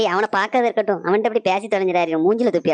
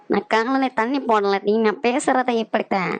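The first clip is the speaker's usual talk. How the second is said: put-on slow, drawn-out drunken protest; tipsy, laboured denial; slower than usual. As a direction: deny drinking while dragging out the words. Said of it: "காலையிலேயே குடிச்சிட்டு வந்திருக்காரு".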